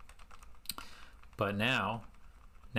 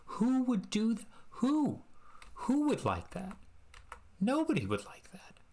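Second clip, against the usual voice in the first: much higher, disbelieving squeak; mock-outraged high voice; incredulous squeal; 12 semitones higher than usual. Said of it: "I'm like".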